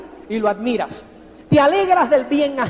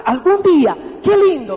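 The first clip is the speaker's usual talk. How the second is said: soñador ilusionado; 5 dB louder than usual. Shown as a demonstration. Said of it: "fíjate esa expresión".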